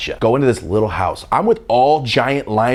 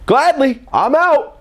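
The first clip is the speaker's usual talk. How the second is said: high, sing-song bail out; much higher mock-cheerful I'm out; cheeky exit; 4 dB louder, slower than usual. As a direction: flip it off lightly, leaving. Answering football players screaming.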